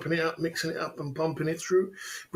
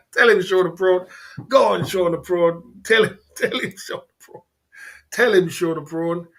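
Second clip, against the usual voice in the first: hype call-out; 2 semitones higher, 5 dB louder than usual. Real, not acted. Egging a chatter on.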